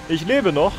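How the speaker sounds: "noch" given the weight of the line; "noch" carries the stress. Shown as a demonstration. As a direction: lean on the word "noch". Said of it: "Betonung auf noch".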